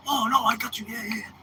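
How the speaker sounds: high, put-on voice for Yoshi; imitating the tour manager. The tour manager promises the picks, in a high put-on voice. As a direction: lift the pitch and play the friendly tour manager.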